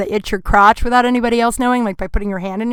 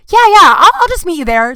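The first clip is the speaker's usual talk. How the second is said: flustered; 7 semitones higher, 5 dB louder than usual. Retold or imitated. Flustered quick reply in retold chat.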